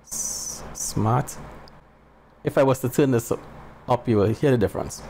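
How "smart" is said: barely voiced, very soft test word; mic test spoken very softly; very soft start. Shown as a demonstration. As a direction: breathe the word out almost silently. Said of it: "and I start very soft".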